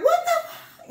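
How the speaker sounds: very high-pitched incredulous outburst, cut off; retold shocked disbelief. Mom retelling her reaction to the gun call, acted shock. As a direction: act out stunned disbelief, half laughing.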